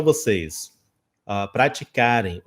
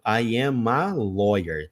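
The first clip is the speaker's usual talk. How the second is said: slow "I am a lawyer" with "a" held; stress on a; 3 semitones lower, much slower than usual. Shown as a demonstration. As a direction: lean on the "a" in "I am a lawyer". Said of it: "Tem que ter esse". (ênfase no "a" de "I am a lawyer")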